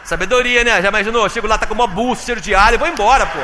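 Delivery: loud, high, bantering mock disbelief; excited comic retelling. Man telling the church how his future wife first looked, loud mock outrage. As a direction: play up the shock for laughs.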